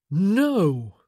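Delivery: loud, pained, confused cry; wounded animal. A narrator's reading. Son refuses his mother, pained and confused. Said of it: "He sounded like a wounded animal".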